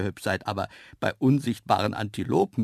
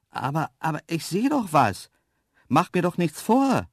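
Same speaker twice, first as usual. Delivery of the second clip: raised, louder insistence; insistent call; 6 semitones higher, 5 dB louder than usual. A narrator's reading. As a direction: call out insistently to someone hiding. Calls to hidden creature, insisting. (beharrlich rufen)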